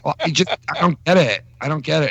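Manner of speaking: lightly mimicked, baffled wife; imitating his wife. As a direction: put on a confused wife's voice. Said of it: "If your wife hears you fucking impersonate her".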